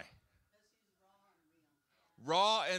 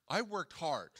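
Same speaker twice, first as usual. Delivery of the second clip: laughing complaint. Retold or imitated. Nathaniel complaining in heaven.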